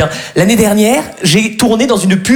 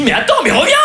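higher, strained mock yell; imitated calling out; 5 semitones higher, faster than usual. Boyfriend calling fleeing girlfriend back, mock yell. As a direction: call her back without real volume. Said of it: "Alors je lui crie".

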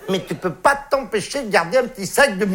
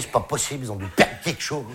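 softer, lower inner voice; thinking to yourself; 4 semitones lower, 6 dB quieter than usual. Retold or imitated. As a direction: mutter it as a private thought. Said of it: "tu te dis".

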